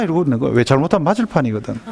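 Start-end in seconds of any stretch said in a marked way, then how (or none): none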